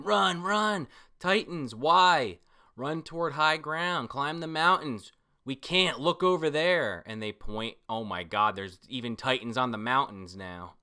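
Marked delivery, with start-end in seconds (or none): 0.0-7.0 panicked crowd. Retold or imitated.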